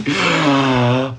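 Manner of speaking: sudden audible gasp; sharp surprised intake. Real, not acted. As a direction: suck in a quick breath. Breaks off on seeing a comment.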